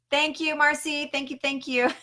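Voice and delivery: high, playful little thank-you voice; odd silly voice. Pretend. Host thanking viewer Marcy in a silly high voice. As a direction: pitch it up playfully and repeat it. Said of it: "I don't even know what that was".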